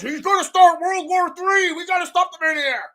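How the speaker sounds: high, loud ranting mock conspiracy host; hammed-up talk-show alarm; Alex Jones. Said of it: "Alex Jones".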